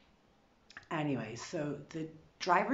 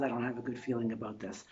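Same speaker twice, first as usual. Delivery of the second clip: a lower, quicker murmur of doubt; low wary husband; 8 semitones lower, 6 dB quieter, faster than usual. Retold or imitated. Husband to wife about the scam, low wary murmur. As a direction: imitate Dave quietly warning. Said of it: "he says".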